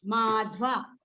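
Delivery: माध्वा in two parts, "maadh-vaa"; corrective pronunciation demo. Shown as a demonstration. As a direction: model माध्वा with both vowels long. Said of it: "आप pronounce करेंगे". (माध्वा का साफ़ उच्चारण)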